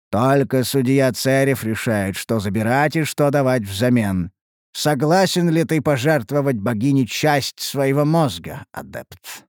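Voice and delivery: low, grave ancient spirit; a deep-voiced elder spirit cautioning; old spirit voice. Spirit asks for consent. (низкий голос древнего духа)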